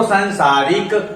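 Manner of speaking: संसारिक with a short "san" opening; short first vowel, long second in संसारिक; corrected pronunciation. Shown as a demonstration. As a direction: say संसारिक as "san-saa-rik". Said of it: "संसारिक होता है".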